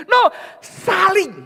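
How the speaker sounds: "saling" drawn out slow, high and shouted; stress on saling. Acted. Pastor correcting the congregation, stressing "saling". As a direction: hammer "saling" home slowly. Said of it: "emphatic correction".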